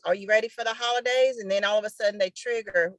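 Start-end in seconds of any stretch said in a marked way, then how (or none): 0.0-1.4 high, quick and bright ad pitch; upbeat ad question. Shown as a demonstration. Teacher models a holiday ad hook, high and quick. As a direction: tease the reader with a question. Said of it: "let 'em think about the holidays".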